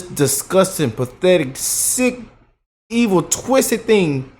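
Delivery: drawn out each insult slowly; slow and disgusted. Real, not acted. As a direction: spit out each word slowly. Disgust list, slowed.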